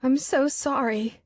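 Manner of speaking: slow, high, wailing apology; slow tearful wail. A narrator's reading. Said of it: "she wails".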